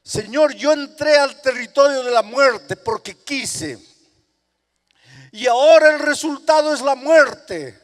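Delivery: high, loud pleading cry; desperate prayer. Acted. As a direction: beg God for life. Sinner begging God.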